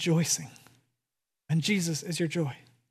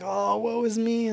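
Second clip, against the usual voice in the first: mock melancholy; slower than usual. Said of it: "to be all melancholy and like".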